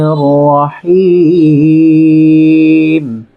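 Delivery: slow, melodic chant with long drawn-out vowels; Quran recitation. Shown as a demonstration. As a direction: recite it as measured tajweed, stretching the final syllable. (ধীর, সুরেলা কুরআন তিলাওয়াত)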